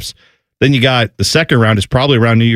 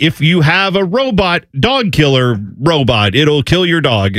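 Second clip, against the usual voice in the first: slow, deliberate mock news read; deadpan parody of a TV news story; news report; 2 semitones higher, slower than usual. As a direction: announce it slowly like a reporter. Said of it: "then it's like".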